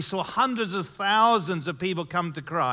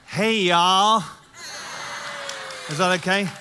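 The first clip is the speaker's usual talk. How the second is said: southern accent. Shown as a demonstration. British guest greeting the American church, put-on southern accent. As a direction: try out a big Southern accent. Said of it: "practice my southern accent on you".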